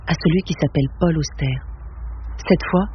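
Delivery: measured, even reading of a novel; story narration. A narrator's reading. Reading Auster's novel to an audience, steady literary narration. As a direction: read it to the room, unhurried and calm. Reads Cité de Verre aloud.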